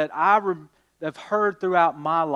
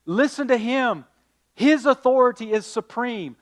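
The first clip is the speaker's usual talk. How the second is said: higher, louder prophetic call; a proclaiming Moses, raised voice; 7 semitones higher, 6 dB louder than usual. Retold or imitated. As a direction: announce it like a prophet. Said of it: "Moses says".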